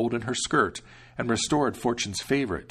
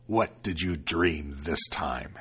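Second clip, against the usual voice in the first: lower, slow devil; curious devil; 5 semitones lower, slower than usual. Acted. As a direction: ask grudgingly. Devil asks.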